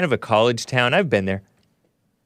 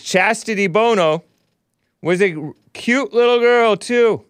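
much higher, put-on sweet voice; mocking quote voice; 8 semitones higher, 4 dB louder than usual. Host reads a listener's comment in a mock cutesy voice. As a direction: read the listener's line in a cutesy high voice. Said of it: "Michelle says".

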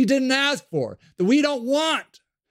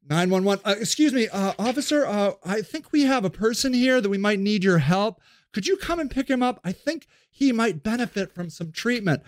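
polite official on a call. Acted. Official calls police politely.

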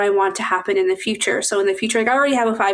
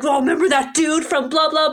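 imitated anger; 5 semitones higher than usual. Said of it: "when you get angry".

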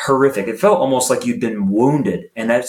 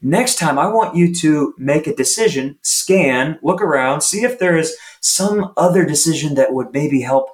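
encouraging coach; 3 semitones higher than usual. Retold or imitated. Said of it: "a positive inflection".

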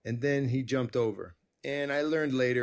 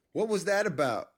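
higher mock angry demand from a small girl; imitating enraged child; 7 semitones higher than usual. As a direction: play the upset daughter, half-hearted. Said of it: "comes out enraged".

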